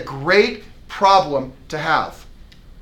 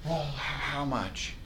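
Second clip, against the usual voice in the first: slow, soft, hesitant giving in; weak caving reply; 12 dB quieter, slower than usual. Shown as a demonstration. Weak agent caving on price, hesitant and quiet. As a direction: cave in quietly to the client. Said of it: "your first question isn't".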